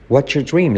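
"What's your" fused into "watcha", no R; T and Y merged. Shown as a demonstration. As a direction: run "What's your dream" together, dropping the R. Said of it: "La T con la Y se convierte en una J".

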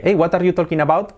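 every word sounded out with Spanish vowels; Spanish learner's careful question; learner's Spanish accent. Shown as a demonstration. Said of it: "yo antes pronunciaba así".

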